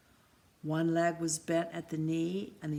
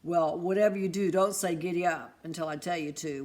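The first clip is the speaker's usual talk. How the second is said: warning; 5 dB louder, faster than usual. Acted. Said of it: "warned Mister Christmas".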